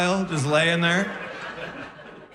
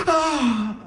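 high waking gasp; 10 semitones higher than usual. Acted. Wife wakes up beside comic, gasping. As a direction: gasp as if jolted awake. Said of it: "she wakes up and she goes".

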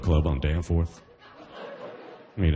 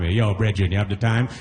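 Jamaican asking time. Retold or imitated. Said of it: "the Jamaican asks you".

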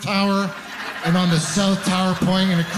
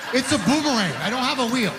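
high, excited bragging; 7 semitones higher than usual. Real, not acted. Comic boasting to the crowd, high and laughing. Boasting about his boomerang feelings.

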